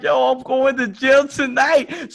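high, loud, slow dread; mock terror. To his friend as the dog sniffs cars, hammed-up dread. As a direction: wail it like you're doomed.

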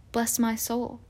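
soft, awed hush; hushed whisper. A narrator's reading. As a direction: breathe it quietly in awe. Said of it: "whispered the old bartender".

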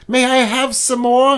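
a hint of a begging child; Oliver Twist plea. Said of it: "Oliver Twist came up and said".

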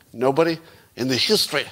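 hammy attempt at a Russian accent; bad Russian accent. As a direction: play the boasting operative with a badly faked Russian accent. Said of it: "this is my bad Russian accent".

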